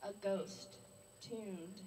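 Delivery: deliberate poetry recital; measured spoken-word delivery; poem reading. Acted. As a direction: read it as verse, pausing between images. Reads poem about drunkenness.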